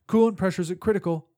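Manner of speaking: loud urgent report. Acted. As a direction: shout the warning. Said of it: "I reported".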